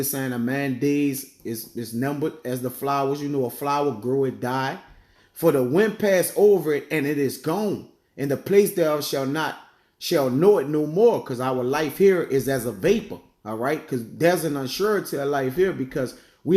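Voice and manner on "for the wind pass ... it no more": scripture reading. Acted. Reads scripture aloud.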